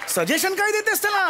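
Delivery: husband snapping at wife over son; angry outburst. Acted. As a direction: scold her for coaching the boy. Father scolds mother.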